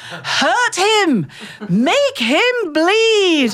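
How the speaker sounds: high, drawn-out ringside heckling; mock bloodthirsty yell. Old ladies heckling wrestlers, mock bloodthirsty yells. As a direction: chant it like a bloodthirsty old lady. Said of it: "were yelling things like".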